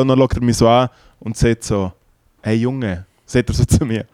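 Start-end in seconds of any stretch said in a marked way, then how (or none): 2.4-3.0 softly imitated Bernese German; quiet put-down in attempted Bernese; lightly voiced Bernese stage manager. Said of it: "einfach auf Berndeutsch, das kann ich nicht so gut nachmachen".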